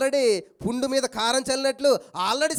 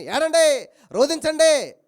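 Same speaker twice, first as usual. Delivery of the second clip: mocking; 5 semitones higher, 8 dB louder, much slower than usual. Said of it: "అంతేగాని".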